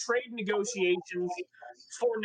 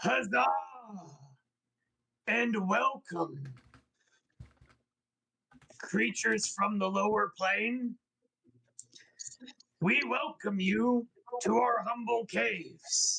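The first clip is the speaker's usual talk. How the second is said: thick, throaty, guttural voice from the throat. Narrator voicing the face-spider king welcoming visitors, deep guttural voice. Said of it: "in a deep guttural, he says".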